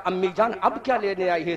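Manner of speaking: a daughter's hushed plea to her mother; anguished, hushed. Acted. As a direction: murmur it quickly, in anguish. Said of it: "حضرت زینب نے تڑپ کے کہا".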